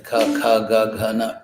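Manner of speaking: each of "ka, ka, ga, ga, na" sounded as a separate guttural syllable; guttural consonant demo. Shown as a demonstration. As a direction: recite "ka, ka, ga, ga, na" from the back of the mouth. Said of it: "the gutturals, like".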